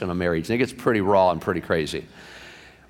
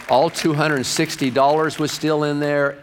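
higher, slower retold delight; ecstatic; 4 semitones higher than usual. Pastor Hector reports the found wallet, mildly ecstatic. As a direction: stretch out the amazed good news, a touch excited. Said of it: "he was ecstatic".

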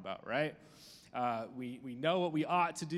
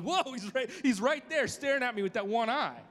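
surprised whoa; 8 semitones higher, 4 dB louder than usual. Retold or imitated. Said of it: "and I'm like".

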